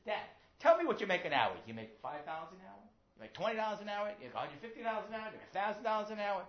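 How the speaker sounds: put-on high, loud, insistent kid; pestering child. Child badgering his father about his pay, insistent. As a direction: fire the questions excitedly at Dad.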